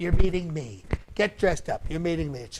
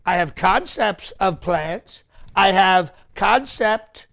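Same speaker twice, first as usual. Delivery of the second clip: slow confident delivery; slower than usual. Shown as a demonstration. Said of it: "that's how you have to deliver it".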